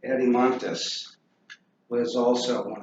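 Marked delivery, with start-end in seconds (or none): 0.1-1.1 Adimontus repeated as AD-ee-MON-tus; pronunciation demo. Shown as a demonstration. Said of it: "is how you pronounce that".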